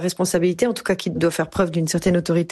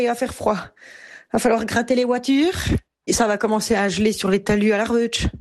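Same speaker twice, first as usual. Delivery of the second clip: higher-pitched Swiss Jura accent; 4 semitones higher than usual. Shown as a demonstration. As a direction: chat in a Jura accent, voice lifted. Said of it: "dès que je parle en jurassien". (accent jurassien, voix qui monte)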